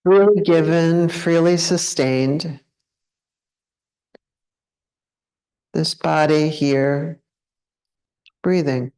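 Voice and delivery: unhurried meditation guide, long pauses between phrases; guided meditation. Acted. Teacher leading a group to check into the body, guided meditation. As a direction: guide them gently into contemplation, leaving space after each phrase. Leads a contemplation.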